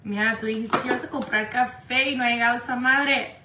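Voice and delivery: real, loud nagging call. Real, not acted. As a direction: call out to chase someone up. Calling complaint to Mia off camera.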